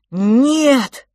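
high, loud sobbing cry. Acted. Franz cutting off his brother, a sobbing cry. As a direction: burst out through tears. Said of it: "Франциск всхлипнул".

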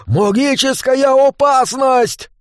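dwarf shouting an alarm, stretched out; yelling. A narrator's reading. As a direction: bellow the warning. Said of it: "заорал".

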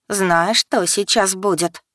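plain reading voice

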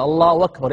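"الله أكبر" linked as "Allahu wakbar"; hamza turned to waw. Shown as a demonstration. Teacher repeating how some people say it, "أكبر" as "wakbar". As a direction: glide into "أكبر" with a w, no glottal catch. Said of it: "يقلب الهمزة واوا".

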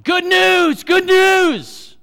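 shouted high and loud, joyful; excited yelling. Retold or imitated. Camp boy running to the guys, yelling joyfully. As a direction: yell it out like a thrilled kid. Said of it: "he's yelling".

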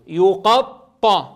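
يقطع stretched very slowly, leaning on the doubled ط; drawn-out word. Shown as a demonstration. Teacher showing pupils the word the spelling builds, drawn out. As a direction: hold يقطع long and heavy on the ط. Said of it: "ماذا نتجت الكلمة؟".

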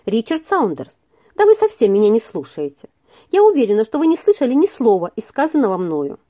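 mildly impatient reproach; a touch of impatience, chiding him; lightly voiced impatient young woman. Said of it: "сказала с нетерпением".

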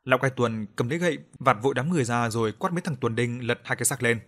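plain reading voice

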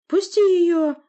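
loud, high demand; demanding shout. A narrator's reading. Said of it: "потребовал Олаф".

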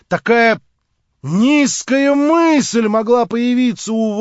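громче, с негодованием; упрекать гневно, с нажимом на «такая»; возмущённо. Acted. Рассказчик вышел из себя. (рассказчик в гневе упрекает)

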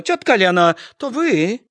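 loud, high call across the yard. Acted. Hanna calls to a distant neighbour, loudly. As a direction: call to a far-off figure. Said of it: "крыкнула".

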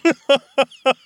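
short loud barking laugh; barked laugh. A narrator's reading. Vampire laughing at Morgana's jab, barked laugh. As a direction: bark out one laugh. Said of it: "The vampire barked a laugh".

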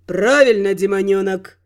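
low, approving god voice; approving chuckle. Acted. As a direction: praise a pupil, amused. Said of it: "Благосклонно усмехнулся Тёмный".

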